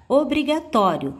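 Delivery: obrigatório, clearly weighted on "tó"; stress on TÓ. Shown as a demonstration. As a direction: punch "tó" in obrigatório. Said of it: "o tó tem a sílaba tônica".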